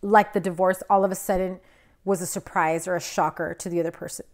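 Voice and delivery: talking through hiccups; words broken by hiccups. Real, not acted. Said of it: "Excuse me, I got the hiccups".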